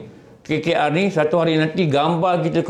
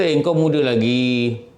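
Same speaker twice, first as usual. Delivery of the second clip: lower, slow and coaxing; tempting whisperer; 6 semitones lower than usual. Acted. Desire telling a young man he has time, slow and coaxing. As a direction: draw it out like a sweet lie.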